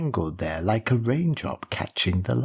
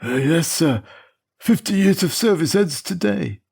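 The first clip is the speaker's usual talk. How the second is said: put-on much higher, eager voice of an old servant; proud old chauffeur; 8 semitones higher than usual. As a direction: tell the boss proudly your service is done.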